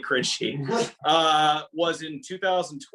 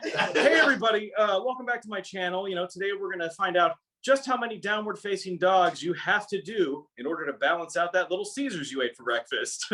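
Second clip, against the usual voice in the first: youtuber intro; 3 semitones higher than usual. Shown as a demonstration. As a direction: open your channel like a chirpy influencer. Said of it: "I'll do a take two on that".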